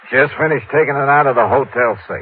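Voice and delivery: put-on Texan phone voice; Texas drawl. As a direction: act the rich Texan, folksy drawl. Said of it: "using my best Texas drawl".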